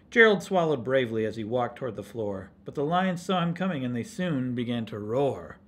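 lively, lilting rhymed storytelling; story read to children. A narrator's reading. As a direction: read it aloud to children with bouncy stresses.

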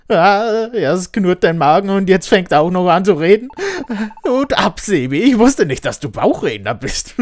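put-on a startled young hero calling out; excited partner voice.

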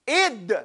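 "Id" with the d cut off firmly; strong, controlled stop. Shown as a demonstration. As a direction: hold "Id" to a firm, released d. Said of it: "You see, that's strong".

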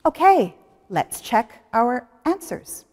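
ordinary talk

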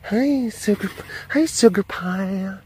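high cooing pet talk. Real, not acted. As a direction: coo sweetly at a pet. Cooing at animal.

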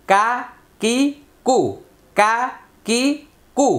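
কা কি কু clipped short and quick; quick short vowels. Shown as a demonstration. Teacher drilling short quick harakah sounds for students. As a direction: snap each harakah out fast. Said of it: "হরকতের উচ্চারণ তাড়াতাড়ি করতে হয়".

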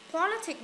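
"Politic" with weight on PO; stress on first syllable. Shown as a demonstration. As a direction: lean on the start of Politic. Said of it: "nhấn âm đầu này".

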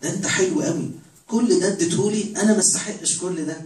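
awed, grateful prayer; overwhelmed thanks. Retold or imitated. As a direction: gush thanks to God like you don't deserve it. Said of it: "واحد واقف قدام ربنا يقول له".

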